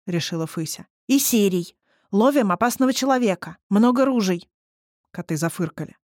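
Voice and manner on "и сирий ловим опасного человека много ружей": urgent, eager. Acted. Fysya urges the cats.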